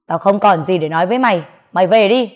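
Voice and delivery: loud, fast, curt; father drives the man out of his house, angry; angry dismissal. Acted.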